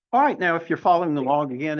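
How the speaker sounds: fast auctioneer talk. Real, not acted. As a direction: rattle it off quickly. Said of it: "talk like an auctioneer".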